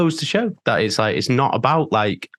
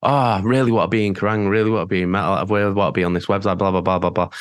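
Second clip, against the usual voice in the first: rushed, lower-pitched mock wishing; mocking eagerness; 5 semitones lower, faster than usual. Band member mocking old hopes of magazine coverage, rushed and dismissive. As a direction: rattle it off dismissively, trailing into blah-blah.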